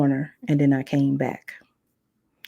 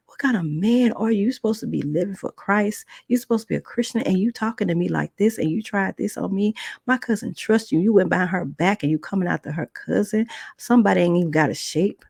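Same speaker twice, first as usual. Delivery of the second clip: higher, reproachful tirade; outraged scolding; 4 semitones higher than usual. Retold or imitated. Girl to the churchgoing man, high outraged scolding. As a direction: shame him for his hypocrisy.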